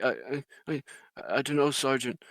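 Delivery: lightly acted hesitant private; stammering recruit. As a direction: stumble over the start like a recruit put on the spot. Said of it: "he's just like".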